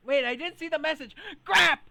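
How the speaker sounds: loud sudden alarm; surprised. Real, not acted. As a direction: blurt it out in sudden panic. Missed a game message.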